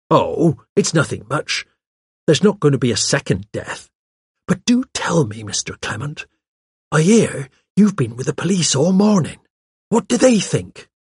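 lightly voiced inquisitive secretary; pert secretary, curious. Secretary pumping the vicar for police news, lightly voiced curiosity. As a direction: fish for news as a chatty girl. Miss Cram's dialogue in narrated story.

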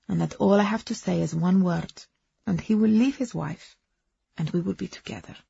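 put-on lightly accented woman recounting her love story; foreign-accented Agnes. Woman confiding her romance to a companion, earnest accented voice.

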